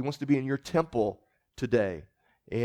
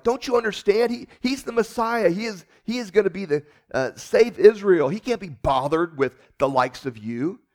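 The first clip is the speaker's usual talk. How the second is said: higher, condescending mock scolding; haughty followers; 5 semitones higher, 4 dB louder than usual. Followers brushing off the blind beggar, mock condescending. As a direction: look down on him from a height. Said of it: "Jesus' people are like".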